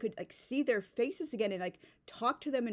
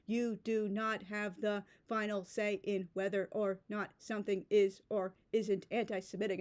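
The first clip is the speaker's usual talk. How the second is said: "You do not have" slowed into separate, even beats; word-by-word emphasis. Retold or imitated. Quoting the screenshot's emphatic post, word-by-word emphasis. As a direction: stress each word of "do not have the final say". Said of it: "put a period between each word to emphasize it".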